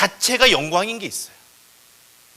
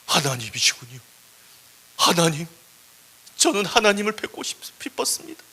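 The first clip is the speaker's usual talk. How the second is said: acted weepy awe, rising in pitch; tearful. Moses overcome before God at last, acting tearful. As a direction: choke up on meeting God. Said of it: "모세는 거기서 울고 있는 거예요".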